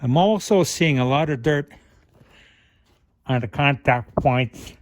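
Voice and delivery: talking around a flashlight in mouth; mouth full. Real, not acted. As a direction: mouth full, words a bit muffled. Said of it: "I got the flashlight in my mouth".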